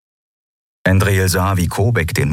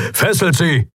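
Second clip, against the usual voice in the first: light bark; 9 semitones higher than usual. A narrator's reading. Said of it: "bellte Kobek".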